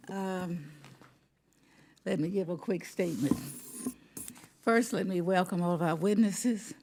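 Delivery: winded, catching her breath between phrases. Real, not acted. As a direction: speak breathless, pausing for air. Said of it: "You can tell I'm out of breath".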